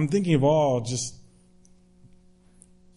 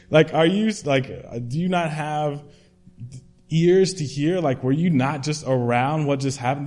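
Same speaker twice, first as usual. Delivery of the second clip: incredulous mock disbelief; 3 semitones higher, 6 dB louder than usual. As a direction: ask it like you can't believe they missed it. Mocks disciples' disbelief at Jesus.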